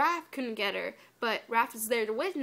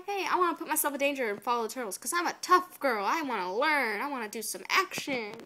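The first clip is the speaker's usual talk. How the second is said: slightly raised, mock-eager voice; mocking imitation. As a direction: imitate a keen wannabe tough girl. Mocks April's eager decision.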